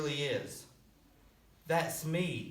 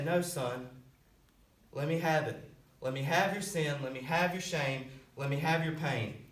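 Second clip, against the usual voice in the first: tender pleading. Acted. Jesus asking to carry the sinner's pain, tender.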